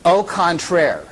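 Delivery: put-on a light schoolgirl French accent on Au contraire, oh con-TRAIR; mock grade twelve French accent, lightly done; high school French accent. Charlene answering Mark in her grade twelve French accent. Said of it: "in her very best French accent from grade twelve".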